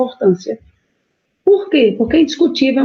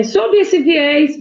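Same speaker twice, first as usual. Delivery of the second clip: each word drawn out slowly as a model phrase; spelled-out model sentence opener; slow dictation; 4 semitones higher, much slower than usual. Shown as a demonstration. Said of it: "você poderia ter dito, por exemplo".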